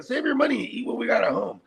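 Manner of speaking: high-pitched exasperated scolding; irritated dad. Retold or imitated. Dad scolding daughter over buying takeout, irritated high voice. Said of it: "I get kinda irritated".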